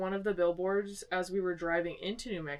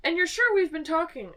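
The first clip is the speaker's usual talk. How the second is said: doubtful question; 10 semitones higher, 8 dB louder than usual. Retold or imitated. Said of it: "I was like".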